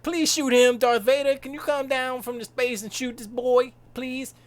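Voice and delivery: mock plea to Darth Vader to shoot Luke; mock pleading. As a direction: beg Darth Vader dramatically. Begging Vader mockingly.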